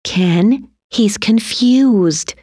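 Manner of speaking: gently calm an angry husband; mild, drawn-out soothing. A narrator's reading. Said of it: "Alex's mom said soothingly".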